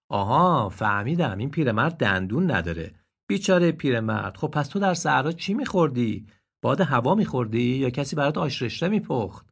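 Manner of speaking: mock pity, rising jibes; teasing donkey. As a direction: tease him with fake sympathy. Donkey teases the deer. (خر با دلسوزی تمسخرآمیز)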